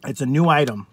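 speaking between bites; talking while chewing. Real, not acted. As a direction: mouth partly full of food. Seen 0: bite lifted at -1.0, then talks with lips moving, fork back in bowl.

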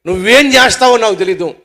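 heated, no-excuses ultimatum; angry demand. Acted. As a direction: lay down the law to a friend. Friend demands a repair.

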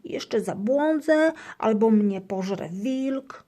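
high, loud, slow frightened hamster; fearful whine. A narrator's reading. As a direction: whine in fear of the wolf. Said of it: "marudzi Gryzek".

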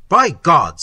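loud, gruff exclamation of admiration; hearty booming praise. Acted. Old man in black cloak loudly praises the wounded soldier. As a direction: bellow it like a proud old officer.

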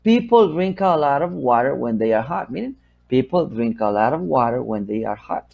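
whole sentence in one connected flow; smooth, unbroken model sentence; linked, no pauses. Shown as a demonstration. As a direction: leave no gaps between the words. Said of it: "de palabra a palabra no haya espacio".

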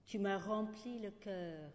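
short poems recited with spacious pauses; poetry reading. Acted. Poet ends with droll short kiss poems, measured recital. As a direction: announce each title, then deliberately place every line. Resumes poems after aside.

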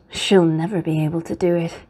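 low, gloating inner voice; smug stepmother thinking aloud; wicked stepmother. A narrator's reading. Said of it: "And she thought".

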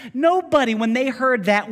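loud, high preaching build-up; rising preacher's emphasis; emphatic build. Real, not acted. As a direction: lift the room toward the punchline.

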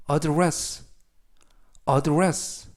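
careful review read of address; model pronunciation. Shown as a demonstration. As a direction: address with a light first syllable, uh-DRESS. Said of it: "address라고 발음하시면 되겠습니다".

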